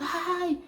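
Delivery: high mock yelp of pain; grito imitado. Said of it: "ele deu o grito". (grito agudo de dor, imitado)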